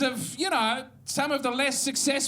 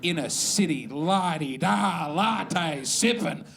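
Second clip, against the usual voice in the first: mock rage; 9 semitones lower than usual. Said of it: "I was so angry".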